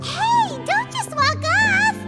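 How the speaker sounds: high, drawn-out protest; calling out. Acted. Troupe member to a friend who is walking away, calling out. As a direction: call after someone leaving, pitched well up.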